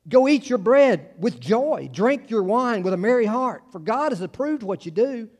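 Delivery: preacher lifting the verse as an emphatic command; emphatic proclamation. Shown as a demonstration. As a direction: proclaim it like a joyful order from the pulpit. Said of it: "this time it's more emphatic".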